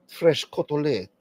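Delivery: slow "Fresh cotolette" with a falling tune; "cotolette" drawn out, ending on e; mock cotolette. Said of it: "I'm like, what the fuck is that?".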